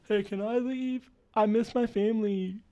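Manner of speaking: high-pitched pleading little voice; squeaky homesick captive; put-on captive voice. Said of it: "this is the voice".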